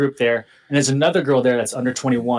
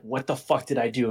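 low, softer stunned muttering; mildly dazed, under the voice; retold disbelief; 4 semitones lower, 6 dB quieter than usual. Slapped and standing there, quiet disbelief. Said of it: "standing there in disbelief".

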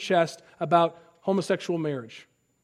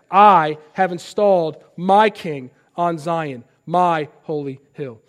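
voice of God; 2 semitones lower, 3 dB louder, slower than usual. Acted. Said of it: "He says".

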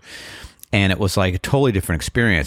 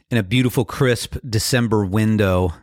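frog in throat; 3 semitones higher than usual. Real, not acted. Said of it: "I sound like I have a frog in my throat".

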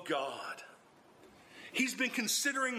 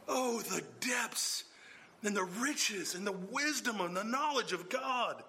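awed exclamation. Shown as a demonstration. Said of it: "emotional assertion of Paul's awe".

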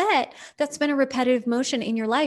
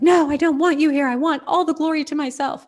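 bird voiced; 6 semitones higher, 6 dB louder than usual. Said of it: "she's like".

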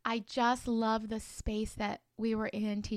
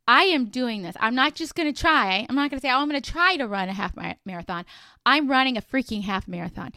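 loud, firm, fired-up declaration; pumped-up pep talk to yourself; determined self-talk; 3 semitones higher, 6 dB louder than usual. Pretend. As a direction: tell yourself you're doing it, no doubt. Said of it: "you're like".

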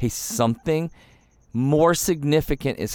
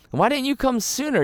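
repeated much higher, pleading; plaintive repeat; 12 semitones higher than usual. Retold or imitated. Martha asking Jesus why he came late, pleading and high. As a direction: push the question up in pitch, hurt.

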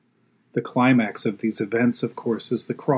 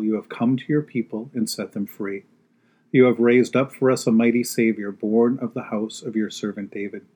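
liturgical recitation. Acted. Congregational canticle recitation.

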